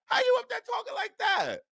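can't believe what he's hearing; incredulous yell. Real, not acted. Host baffled by the coach's podium talk, incredulous high yell.

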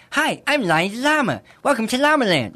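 high, bright cartoon llama voice; Lonnie the Llama voice. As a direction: voice a cheery cartoon llama, octave up. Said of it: "I'll just put my voice octave up".

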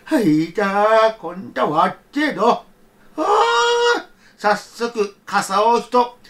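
put-on a gentle old man talking to himself in the snow; a hint of a kindly grandfather. Grandfather voiced in folktale.

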